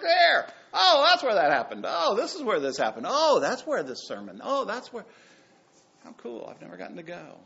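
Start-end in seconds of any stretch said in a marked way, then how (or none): 0.0-5.1 higher and louder, eager discovery; excited tourist. Retold or imitated. The pastor friend touring the Holy Land, lightly mimicked excitement. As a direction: gush at each holy site. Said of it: "he's like".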